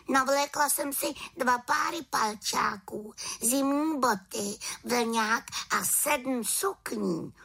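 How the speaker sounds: little witch, high and eager; a young witch coaxing her friend out, pitched high; high voiced little witch, keen to fly. Witch lists her clothes.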